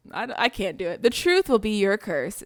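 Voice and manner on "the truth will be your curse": slow ominous curse; lightly ominous witch; witch voice try. Shown as a demonstration. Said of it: "let me try".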